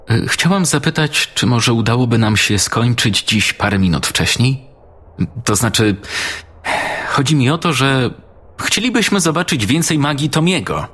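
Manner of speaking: put-on a shy girl pleading with the teacher; schoolgirl Mary. Pupil Mary asks teacher.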